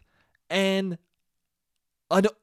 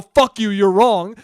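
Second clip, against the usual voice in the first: louder, slower pretend snap; mock defiance; 7 dB louder, slower than usual. Imagined stubborn reply to a corrector, mock angry and louder. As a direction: fake doubling down. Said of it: "double down and go".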